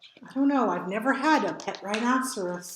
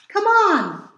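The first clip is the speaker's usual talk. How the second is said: high, louder call; 9 semitones higher, 5 dB louder than usual. A narrator's reading. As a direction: wave a friend over. Bear calls Mole.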